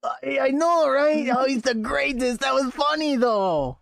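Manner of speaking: a hint of a high squeaky mouse; lightly voiced mouse folk. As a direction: chirp it like a cheerful little mouse. Player voices mouse character.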